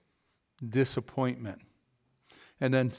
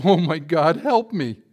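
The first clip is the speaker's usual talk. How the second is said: cried out; 2 semitones higher, 5 dB louder, slower than usual. Acted. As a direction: yell for help as you fly through the air. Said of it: "he cried out".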